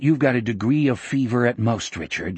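mildly calm, dropping away at the end. Acted. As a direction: keep it level and unruffled. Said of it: "Jack said calmly".

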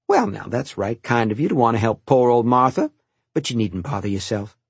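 lightly voiced kindly old cook; a hint of the old kitchen maid, amused; old cook Martha. Old cook thanking the boy for helping, lightly voiced.

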